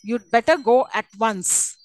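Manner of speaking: slow "you'd better go at once", falling at the end; measured command falling on "at once". Shown as a demonstration. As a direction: say it slowly and drop on "once". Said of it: "It's again a fall".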